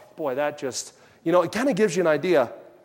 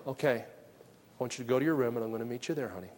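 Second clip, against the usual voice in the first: calm father; 5 semitones lower, 10 dB quieter than usual. Retold or imitated. Father calmly sends child to room.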